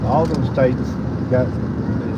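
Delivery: talking while bouncing in the car; on a bumpy road. Real, not acted. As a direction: voice jolted by a bumpy ride. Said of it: "Apologize for the bumpy ride".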